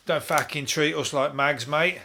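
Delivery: lightly mocked-up Cockney bishop; Cockney accent. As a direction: put on a rough-and-ready Cockney accent. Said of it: "if he is a Cockney".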